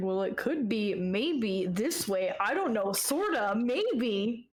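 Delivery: very slow, vague, unsure hedging delivery. Mocking a companion who knows nothing: imitating his clueless answers. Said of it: "He knows nothing. Every time we ask him a question, he's like".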